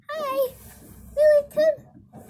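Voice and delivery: high, slow call to the dog. Real, not acted. Calling the dog.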